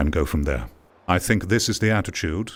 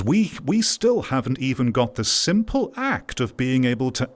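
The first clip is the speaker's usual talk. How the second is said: exasperated rhetorical rant, pitched higher; impassioned complaint; 4 semitones higher than usual. Real, not acted. Creator laments VR's failings to viewers, impassioned complaint. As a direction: build an emphatic, higher-pitched case of frustration.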